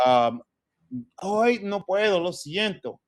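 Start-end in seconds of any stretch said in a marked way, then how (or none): 1.2-3.0 heartfelt, higher pitched apology with feeling; dramatic soap-opera regret; emotional telenovela delivery. Shown as a demonstration. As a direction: say it like you're in a novela. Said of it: "I'm feeling it. I'm emotional with it".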